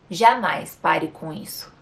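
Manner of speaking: "Jamais" drawn out and slow, leaning on it; slow, weighted "Jamais pare com isso"; stressed jamais. Shown as a demonstration. Teacher demonstrates a negated command with slow emphasis on "Jamais". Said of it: "de forma afirmativa ou negativa".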